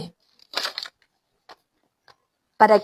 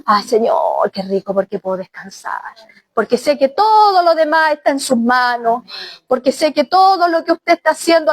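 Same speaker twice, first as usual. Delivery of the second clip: heartfelt prayer. Acted. Preacher breaks into prayer.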